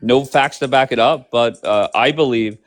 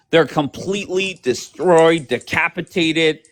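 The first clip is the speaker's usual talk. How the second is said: Trump impression; 3 semitones higher than usual. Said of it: "He's already talking like this".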